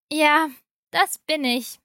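answering with a touch of irritation; a bit too annoyed. Acted. Daughter-in-law answering her pushy mother-in-law, a bit too annoyed. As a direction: let a little annoyance slip into the yes. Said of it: "ein wenig zu genervt".

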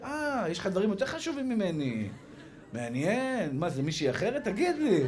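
mock-offended questioning, rising at the end; suspicious wife. Wife to husband who didn't answer, mock-suspicious. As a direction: act out a jealous wife interrogating him.

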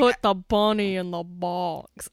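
slow, hammed-up Southern drawl; bad Southern accent. Friend mocking the actor's awful accent in Con Air, bad Southern drawl. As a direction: drag out a poorly faked Southern accent. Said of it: "It's worse than what I just did".

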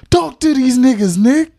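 high, loud hype-man shout. Shown as a demonstration.

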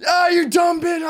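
high shouted taunt; retold guys' shout. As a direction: yell it like the guys roasting her. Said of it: "watch all the dudes go".

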